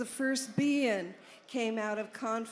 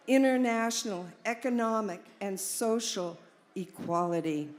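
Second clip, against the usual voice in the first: formal speech reading. Acted. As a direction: read it out like a manifesto. Reads Alan's Be-In statement aloud.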